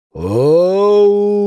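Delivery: high, loud drawn-out wail; ghostly howl. Acted. Buddy howling behind the corpse to scare Neil, ghostly wail. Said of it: "взвыл Бадди".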